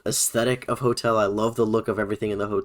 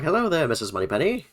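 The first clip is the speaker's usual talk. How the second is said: lightly playing a 1930s charmer; 1930s Gatsby voice; 5 semitones higher than usual. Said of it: "the nineteen thirties, like, voice. His very Great Gatsby".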